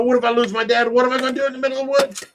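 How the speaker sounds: mock-panicked little kid; scared kid. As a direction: rush the worries out like a frightened child. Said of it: "and I'm getting scared. I'm a little kid".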